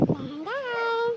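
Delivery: drawn-out, unhurried reminder; easy, slow guiding word; gentle slow coaxing. Real, not acted. Parent coaxes child to go slow.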